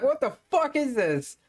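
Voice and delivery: high, hammed-up terrified yelling; mock panicked shriek. Passerby fleeing and calling police, high mock panic. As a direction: shriek for help in mock terror. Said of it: "He's like".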